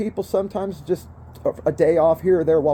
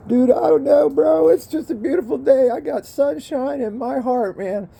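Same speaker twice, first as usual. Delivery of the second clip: elated; 5 semitones higher than usual. Real, not acted. Elated off work.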